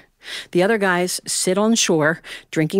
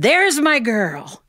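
fond uncle; 5 semitones higher, much slower than usual. Retold or imitated. Uncle greets her at the door.

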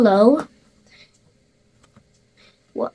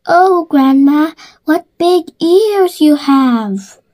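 put-on little girl voice; 4 semitones higher, slower than usual. Girl wondering at ears.

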